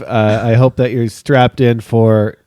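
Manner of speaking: stuffy blocked nose; talking through congestion, underwater sound. Real, not acted. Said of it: "You sound like you're underwater".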